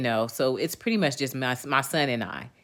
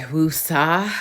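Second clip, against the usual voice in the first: slow, drawn-out woosah; calming breath; 2 semitones higher than usual. Retold or imitated. Telling viewers she feels calmer now, slow calming woosah. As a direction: let the word out slowly, settling yourself. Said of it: "I'm like".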